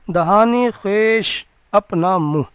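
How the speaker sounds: slow, deliberate read of دہان خیش; teacher reading دہان خیش slowly; slow teaching read. Shown as a demonstration. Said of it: "خیش اور خود ہم نے اوپر بتایا تھا".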